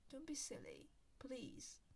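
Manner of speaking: soft pleading whisper. Real, not acted. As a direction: plead under the breath. Whispered plea.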